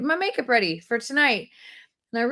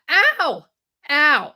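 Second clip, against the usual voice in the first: two loud mock ows; pained yelp; 5 dB louder than usual. Telling viewers it hurt, mock pained yelps. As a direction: act out the sting, louder. Re-enacts the pain of waxing.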